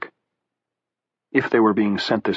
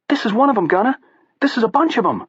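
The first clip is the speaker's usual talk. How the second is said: put-on Southie accent; faster than usual. A narrator's reading. Harold jabbering at Gunner.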